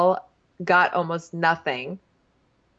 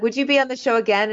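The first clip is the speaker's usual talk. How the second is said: higher-pitched retold interviewer question; mock host question; 6 semitones higher, faster than usual. Host asking Danique about returning, mock interviewer. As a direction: put on a show host asking.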